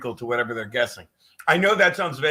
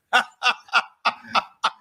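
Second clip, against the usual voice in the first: laughing; 8 semitones higher than usual. Real, not acted. Laughs at his own joke.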